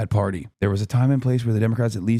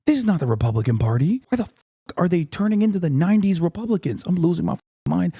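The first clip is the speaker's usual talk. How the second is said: whisper scream; 6 semitones higher than usual. Real, not acted. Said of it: "I have to whisper scream".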